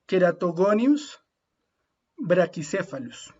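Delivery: "Keratogonius brachycephalus" said slowly, every C as a hard K; slow, careful Latin name; Latin pronunciation. Shown as a demonstration. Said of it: "toda la letra C las vamos a pronunciar como si fueran una K".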